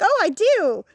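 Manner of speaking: sudden high sarcastic "oh, I do"; high mock agreement. Recalling caving in to a friend, high and mocking. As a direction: give in with a high, mocking lilt. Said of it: "And I'm like".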